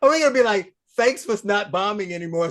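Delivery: high, loud incredulous objection; retold disbelief. Host recalls hearing of Arafat's Nobel Prize, incredulous.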